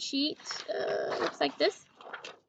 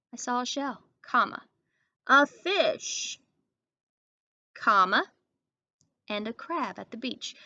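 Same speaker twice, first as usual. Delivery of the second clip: saying comma out loud between items; reading commas aloud; 4 dB louder than usual. Shown as a demonstration. Teacher reading the sentence with commas named aloud. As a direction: speak the word comma at each break. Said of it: "so I'm gonna put a comma after shell".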